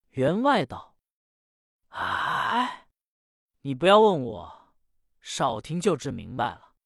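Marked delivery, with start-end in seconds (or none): 1.9-6.8 angry master. Acted. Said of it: "只见员外大怒".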